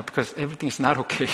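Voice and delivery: slow, weighty contrast; slow emphatic. Shown as a demonstration. Preacher correcting false cheer, slow and weighty. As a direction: spell it out slowly. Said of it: "slow emphatic correction".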